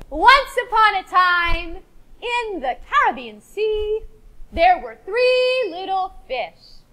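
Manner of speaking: slow, sing-song once-upon-a-time telling; storytelling. Acted. Teacher opens the fish story for the class, slow and sing-song. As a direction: draw the class into the tale slowly.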